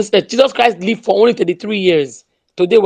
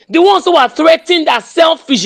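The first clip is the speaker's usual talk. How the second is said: raised voice; 6 semitones higher than usual. Real, not acted. Heated speech at a protest call.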